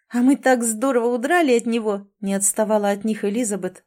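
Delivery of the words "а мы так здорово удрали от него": laughing. Acted. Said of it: "сгибаясь пополам от смеха".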